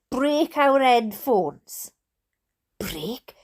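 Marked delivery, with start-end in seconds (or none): 2.8-3.3 breathless shocked whisper; whispered disbelief. Real, not acted. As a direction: gasp it out in a whisper. Shocked at teacher's threat.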